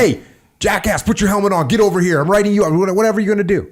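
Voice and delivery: aggressive reprimand. Acted. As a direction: lay into him, urgent and forceful. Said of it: "You're gonna aggressively implement your safety procedures".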